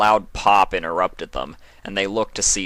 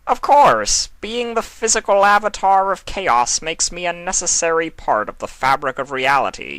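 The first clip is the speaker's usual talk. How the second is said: a much higher, louder mocking trickster; Discord; 4 semitones higher, 4 dB louder than usual. Discord dodging Nightmare Moon's question, a high playful mocking voice. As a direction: toss it off with gleeful chaos.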